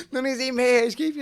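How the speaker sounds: high, loud put-on sister voice; mock angry sister. Sister scolding the family, hammed-up loud. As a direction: ham up the outraged sister.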